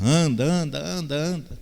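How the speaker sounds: mock-command her to walk, hammed up; mocking Pablo Marçal. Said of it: "começou a querer forçar ela a andar". (imitando, em tom de ordem forçada)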